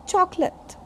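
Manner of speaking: chocolate as CHOK-lut, weak last vowel; unstressed ending. Shown as a demonstration. Teacher repeating chocolate, CHOK-lut. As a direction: leave the end of chocolate unstressed. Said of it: "We don't put stress on a".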